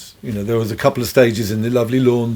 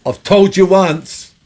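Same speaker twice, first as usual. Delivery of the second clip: menacing threat; 5 semitones higher, slower than usual. Retold or imitated. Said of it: "And he went".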